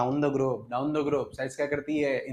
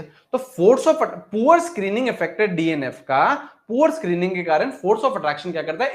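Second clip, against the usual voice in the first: slow emphatic point; 3 semitones higher, much slower than usual. Shown as a demonstration. Teacher hammering home a key point to class, slow and drawn out. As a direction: drag out each word so it sinks in. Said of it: "slow emphatic dictation".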